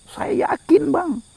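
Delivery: high, emphatic, assured reply; confident answer. Acted. Child answers preacher about heaven, confident and emphatic. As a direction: answer firmly, pitched well up. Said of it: "Anak tersebut menjawab dengan mantap".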